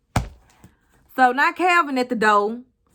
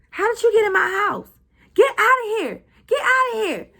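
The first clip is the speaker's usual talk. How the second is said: high, loud yell to get out; high frantic yell of get out of here; 9 semitones higher, 4 dB louder than usual. Retold or imitated. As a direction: scream at the intruder to leave. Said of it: "Andy started yelling at her".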